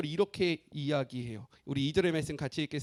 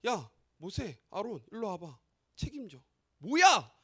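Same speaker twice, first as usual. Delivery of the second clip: higher, louder accusing rant at Moses; mock blaming; 4 semitones higher, 4 dB louder than usual. Crowd blaming Moses and Aaron, higher mock-angry accusation. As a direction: jab the blame at Moses and Aaron. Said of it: "모세와 아론을 향하여 원망하기 시작하는 거예요".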